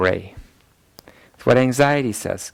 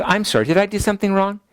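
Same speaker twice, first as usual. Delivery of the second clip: anxious apology; 6 semitones higher, faster than usual. Retold or imitated.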